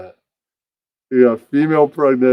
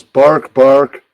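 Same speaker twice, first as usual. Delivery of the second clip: dog barking; 8 dB louder than usual. Acted. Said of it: "the dog goes".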